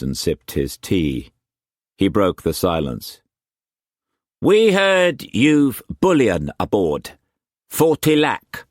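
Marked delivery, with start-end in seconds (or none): 4.4-8.7 high, loud Cockney pirate-trader voice; Cockney swagger, pitched well up and pushed; harsh Cockney accent. A narrator's reading. Wu Kwok pressing food on Struan, in harsh Cockney accent. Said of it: "the harsh Cockney accent".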